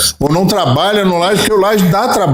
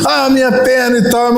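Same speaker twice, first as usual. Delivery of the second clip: higher, lightly voiced complaining kid; whining hurt boy; 6 semitones higher than usual. Boy with a hurt shin answering his mother, light whiny voice.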